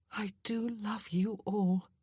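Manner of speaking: tender whisper. A narrator's reading. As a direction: breathe it out in gratitude. Exhausted woman thanks her friends.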